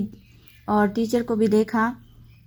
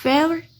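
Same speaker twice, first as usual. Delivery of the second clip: फेवरेट broken up, high "favour", pause, separate final "t"; divided into parts; 6 semitones higher, 3 dB louder than usual. Shown as a demonstration. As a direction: pull फेवरेट apart with a gap before the last sound. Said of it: "three parts में divide करके बोलते हैं". (फेवरेट को हिस्सों में तोड़कर, आख़िरी "ट" अलग)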